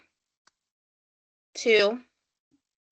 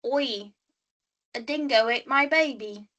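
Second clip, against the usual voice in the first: mock Aussie catchphrase; lightly put-on Australian accent. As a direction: imitate an Australian. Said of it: "any ideas for Australia?".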